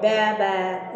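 short ba ba like a goat; light goat sound; goat bleat. Shown as a demonstration. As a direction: bleat for the class. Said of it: "I can bleat like a goat".

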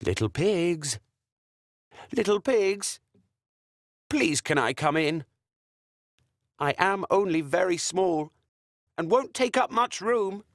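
wolf putting on a small innocent voice; fake-sweet wolf. Wolf pretending to be small to get inside. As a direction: coax them sweetly, pretending to be harmless. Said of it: "not fooled by his act".

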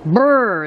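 cold shiver brr. Real, not acted. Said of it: "it's cold".

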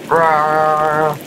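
long drawn-out mock roar; playful roar. Player reacts to spinning volcanoes, playful roar. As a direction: let out a held, silly roar.

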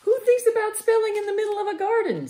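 put-on high, odd old bee voice; strange voice. Old queen bee teasing Lizzie in a strange voice. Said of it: "said a strange voice".

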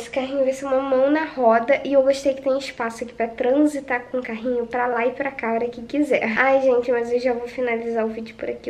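normal talking voice

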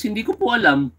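high, meek and polite reply; suggested polite answer. Pretend. Commentator voicing what the accused should say, meek and high. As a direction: sounds like an innocent, humble answer. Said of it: "Sabihin niya lang kay Nograles".

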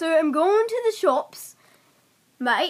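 lightly attempted Cockney accent. Player repeats a sentence for friend to guess, Cockney accent.

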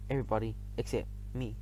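soft, sad, dropping low. A narrator's reading. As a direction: let it fall away in loneliness. Lonely refrain repeated.

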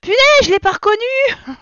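loud, high-pitched astonishment; real surprised exclamation, pitch jumping up; startled surprise. Real, not acted. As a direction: burst out, taken aback. Fails to recognise her own character.

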